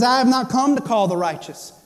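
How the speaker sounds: lightly pointed irony on righteous; a touch of sarcasm under a firm statement; mild sarcasm. Retold or imitated. Jesus answering the religious people, mildly sarcastic. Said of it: "you have to hear the sarcasm there".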